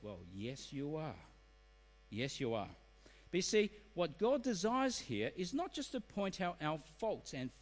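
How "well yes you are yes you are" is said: low, soft reply; quiet verdict. Acted. God answering a person's excuse, quiet verdict.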